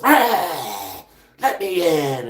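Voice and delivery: lightly voiced vampire pleading to come in; wheedling vampire, only lightly put on; mock vampire plea.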